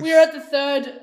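laughing through the line. Real, not acted. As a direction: redo it while laughing.

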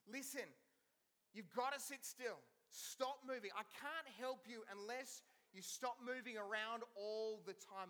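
put-on firm and a bit slow, a dad telling a squirming kid to sit still; mildly stern, laying down the rule; firm parent. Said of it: "look at them in the eyes and go".

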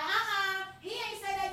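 lightly voiced doubter; imitating black folks' denial. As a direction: mimic someone brushing it off. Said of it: "and black folks like".

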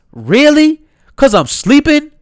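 high indignant "Word?"; incredulous disbelief. Retold or imitated. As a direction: throw the questions back in disbelief. Voicing the Yale student's disbelief.

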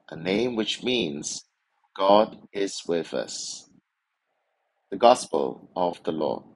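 measured liturgical reading voice; gospel reading. Acted. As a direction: proclaim it like a priest at Mass. Proclaims the gospel at Mass.

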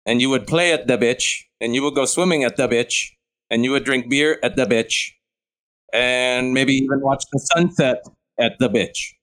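every "beach" said like "bitch"; short i in each "beach", deadpan; Venezuelan-accented "beach". Shown as a demonstration. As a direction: mimic the Venezuelan vowel in "beach". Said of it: "But in Venezuela".

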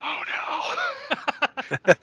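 high, yelped oh no in mock panic; a hammed-up cry of dismay. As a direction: squeal it like sudden dread. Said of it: "and it's like".

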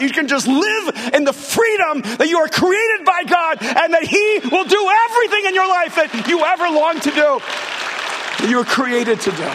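high, impassioned preaching that builds to a shout; full-force preaching. Real, not acted. Preacher promising the congregation freedom, soaring full-force delivery. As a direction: drive it upward in one rousing, unbroken surge.

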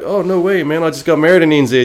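high, quick and friendly; a pro lighting up at a fellow Kiwi fan; excited reply. Retold or imitated. Pro snowboarder answering a New Zealand fan, high and eager. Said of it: "he was like".

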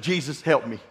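low, soft muttered plea to Jesus; quiet prayer. Retold or imitated. Father at his wits' end, low and soft plea. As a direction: pray it under your breath. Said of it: "I said".

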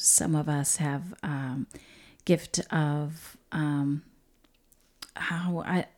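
searching for words, trailing off; blanking mid-sentence, hesitant; fumbling for words. Real, not acted. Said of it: "You sound like you're blanking a little bit here".

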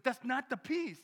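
high, loud firm declaration; God's voice. Retold or imitated. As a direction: proclaim it like God correcting you. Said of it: "He goes".

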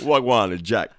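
badly faked, jokey Jamaican accent. Podcaster imagining a Jamaican Jack for a laugh, bad Jamaican accent. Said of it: "Awful Jamaican accent".

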